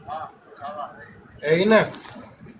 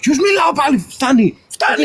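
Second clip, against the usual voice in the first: real fed-up outburst, raised pitch; exasperated protest; 5 semitones higher than usual. Real, not acted. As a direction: protest hotly, cutting off the accusation. Partner rejects her accusation.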